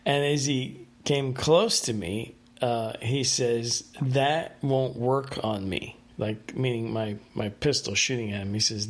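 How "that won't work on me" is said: slow, deliberate retold warning; measured delivery with weight on THAT; mock intimidating. Dreamer retelling an opponent's line, slow and mildly intimidating. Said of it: "supposed to intimidate me".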